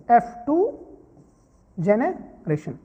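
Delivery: जनरेशन stretched out in two parts; slow dictation. Shown as a demonstration. Teacher names the F2 generation for students, slow dictation. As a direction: say जनरेशन slowly, pausing midway.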